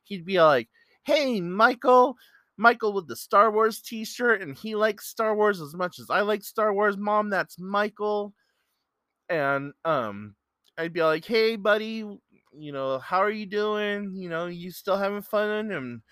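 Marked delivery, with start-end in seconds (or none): 1.0-8.3 passionate, excited. Retold or imitated. Young man spotting his friend in the store, calling out excitedly. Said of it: "was just really passionate about it". 11.3-15.7 friendly greeting. Retold or imitated. Friendly greeting to the young man.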